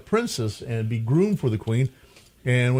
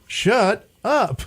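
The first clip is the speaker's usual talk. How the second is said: high disbelieving shut up, falling; incredulous shut up; 7 semitones higher than usual. Retold or imitated. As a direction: say it like you can't believe it. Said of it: "You gotta say it this way".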